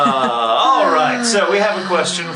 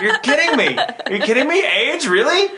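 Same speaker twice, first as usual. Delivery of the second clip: retold disbelief; 13 semitones higher than usual. Retelling disbelief at being cast.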